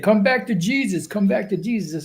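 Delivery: mock his repeated plea, pitch lifted; mocking imitation. Quoting an opponent's call to return to Jesus, mock pleading. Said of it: "Vocab Kid said".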